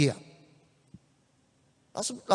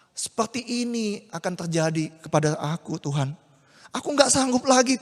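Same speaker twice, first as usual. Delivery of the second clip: tearful prayer. Acted. Maria prays, weeping alone.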